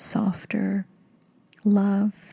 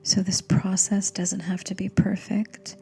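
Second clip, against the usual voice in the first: gentle meditation guide with long pauses; guided meditation. Acted. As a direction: ease the listener into calm, phrase by phrase.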